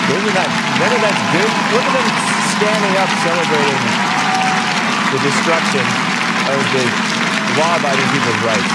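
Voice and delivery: outraged rant. Real, not acted. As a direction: rant at them, fully indignant.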